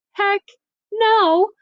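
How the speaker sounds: put-on high, loud teen refusal; flat-out teenage no; indignant refusal. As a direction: daughter rejecting the marriage outright. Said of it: "Juliet takes one look at her mom and says".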